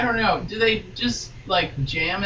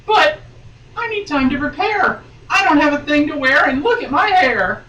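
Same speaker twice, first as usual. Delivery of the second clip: panicked rush; 7 semitones higher, 4 dB louder than usual. Acted. Heroine panics, comic reading.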